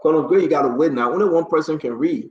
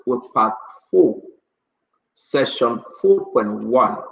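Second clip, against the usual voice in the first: slow, measured official proclamation; formal order reading; 3 semitones lower than usual. Real, not acted. Host reads executive order to radio listeners, formal and deliberate. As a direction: read out a legal order, phrase by phrase with pauses.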